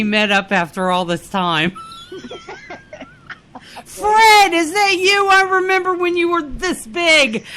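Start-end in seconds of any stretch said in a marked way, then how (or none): 3.8-7.4 high-pitched, hammed-up reunion greeting; mock delighted greeting. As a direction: greet a long-lost pal in playful amazement. Acting out reunion of released pets.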